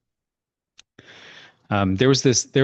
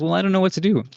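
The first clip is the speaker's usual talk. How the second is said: put-on old woman; 9 semitones higher than usual. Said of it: "this old woman knocks on my door".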